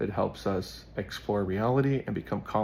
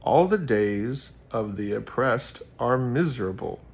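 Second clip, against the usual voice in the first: fantasy voice. Acted. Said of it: "Gotta do the fantasy voice".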